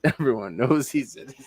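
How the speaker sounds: sarcastic line broken by a laugh; laughing sarcastically. Retold or imitated. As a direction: laugh through the mock praise. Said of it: "I'm reading a little bit of sarcasm".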